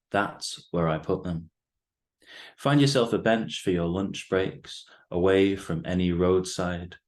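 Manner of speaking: measured, deliberate poem recital with weighted pauses; poetry reading. Acted. Poet reads own poem to the host and listeners, measured recital. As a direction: read it line by line, letting each phrase land.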